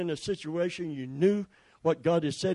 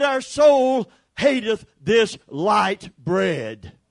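mock grumbling; 3 semitones higher, 6 dB louder, much slower than usual. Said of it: "and they said".

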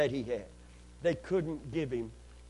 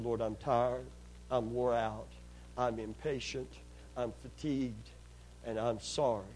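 low, subdued retold prayer; tired, understated admission with pauses between phrases; weary confession; 3 semitones lower, 3 dB quieter than usual. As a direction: retell a worn-out apology to God, pitched down.

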